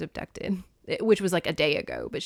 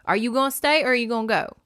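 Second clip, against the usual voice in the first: higher, louder impatient snap; exasperated demand; 4 semitones higher, 6 dB louder than usual. Retold or imitated. Persephone presses Hades to stay or go, loud and exasperated. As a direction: demand an answer now. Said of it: "he's like".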